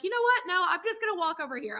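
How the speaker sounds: high, quick mock mom voice; imitated mom backing down. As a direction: act out a parent hurriedly giving in. Mom voiced backing down when warned.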